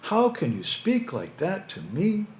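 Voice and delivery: high, slow, put-upon pleading voice; sly scorpion. Acted. Scorpion protests his ethics to the doubtful camel, high and slow. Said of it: "And the scorpion said".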